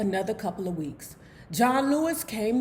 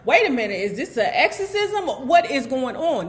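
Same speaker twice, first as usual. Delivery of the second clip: fearing it's an exorcism; panicked confusion; 3 semitones higher, 5 dB louder than usual. Retold or imitated. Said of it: "she's saying to herself".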